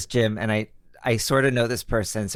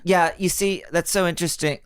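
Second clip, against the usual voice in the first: fake phone chat; 6 semitones higher than usual. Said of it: "fake phone call".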